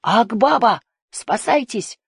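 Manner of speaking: high, urgent warning shout; alarm cry. A narrator's reading. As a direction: cry out to warn everyone of danger. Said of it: "услышал крик".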